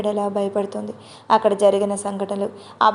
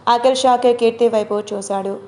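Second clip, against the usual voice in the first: usual speaking voice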